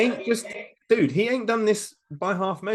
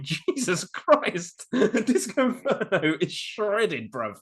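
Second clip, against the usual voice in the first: slow, drawn-out, higher gasp of awe; amazed exclamation; 4 semitones higher, much slower than usual. Retold or imitated. Retelling seeing a ripped wrestler at the gym, slow awed exclamation. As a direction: stretch it out like you can't believe your eyes.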